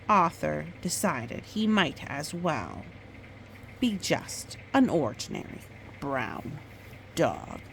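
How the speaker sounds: gentle storybook read-aloud; reading to a child. Acted. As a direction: tell it like a bedtime story. Mother reads picture book aloud.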